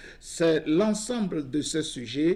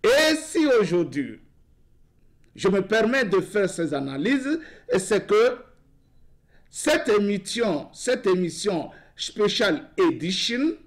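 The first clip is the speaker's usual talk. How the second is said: higher-pitched, emphatic editorial monologue; monologue oratoire; 3 semitones higher than usual. Real, not acted. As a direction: deliver it like an editorial, pausing between phrases. Delivers his announced nightly monologue. (monologue solennel et emphatique)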